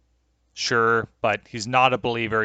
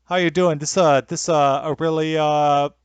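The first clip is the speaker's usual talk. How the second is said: hesitant, higher-pitched mock British; terrible British accent, groping for the words; bad British accent; 4 semitones higher, 3 dB louder than usual. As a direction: fumble through a put-on British accent. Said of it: "That's the extent of British accent".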